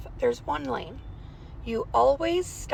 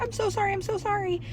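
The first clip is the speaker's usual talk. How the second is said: near tears; 9 semitones higher than usual. Retold or imitated. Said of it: "almost in tears".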